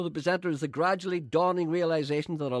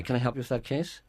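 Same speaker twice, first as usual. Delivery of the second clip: threatening; 3 semitones lower than usual. Shown as a demonstration. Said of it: "It sounds threatening".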